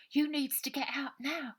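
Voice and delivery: high urgent whisper. A narrator's reading. Aggie urging the children out, high whisper. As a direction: hiss it at them to hurry.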